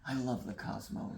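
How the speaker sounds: softly whispered; hushed confession. Real, not acted. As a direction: whisper it like a secret. Confessing love of cosmos, hushed.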